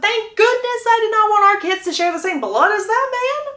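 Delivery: high, lifted voice for Hyacinth; lightly voiced relieved fiancée. Hyacinth's reply voiced in a story.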